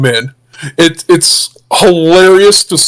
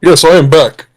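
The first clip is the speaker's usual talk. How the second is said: voice changer. Real, not acted. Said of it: "My voice changer is working".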